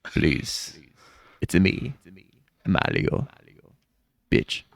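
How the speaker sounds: mafia don. Pretend. Mario turned gangster, lightly voiced mob don. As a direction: lean in like a mob boss. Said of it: "Turns into a gangster".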